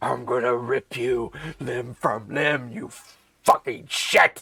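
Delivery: slow, harsh, grating fiend voice. Voicing a tiefling chasing a fleeing player: grating tiefling voice. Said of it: "its voice. It's just grating".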